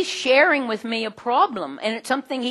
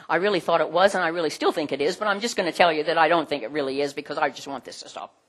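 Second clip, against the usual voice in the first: weak apology; 3 semitones lower, faster than usual. Acted. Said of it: "Weak apologies".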